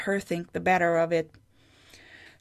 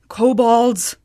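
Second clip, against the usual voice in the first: indignant correction; 3 semitones higher, 7 dB louder than usual. A narrator's reading. Sigrid correcting Groa.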